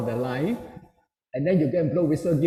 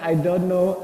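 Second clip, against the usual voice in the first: put-on higher, lightly tearful child voice; touch of mock wailing; imitated crying child; 4 semitones higher, slower than usual. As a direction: lightly mimic a crying boy. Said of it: "When my son looked at me crying".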